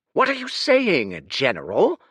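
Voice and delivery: high, sharp snap; snapped. Acted. The Oasis Lord snapping at the general. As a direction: bite back at the general. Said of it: "snapped the Oasis Lord".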